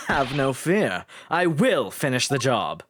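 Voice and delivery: low, steady character voice; resolute game character. Acted. Character promising to finish the job, resolute.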